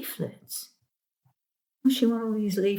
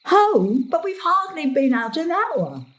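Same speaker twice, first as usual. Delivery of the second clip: indignant home; 9 semitones higher than usual. Acted. Gran protesting to her daughter about going home, indignant.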